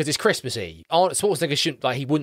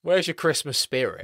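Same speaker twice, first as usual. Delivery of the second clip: mock character line; 7 semitones higher than usual.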